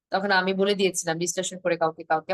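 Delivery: normal talking voice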